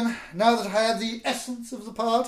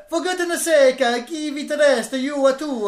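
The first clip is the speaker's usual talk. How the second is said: put-on Italian accent; 3 semitones higher, 4 dB louder than usual.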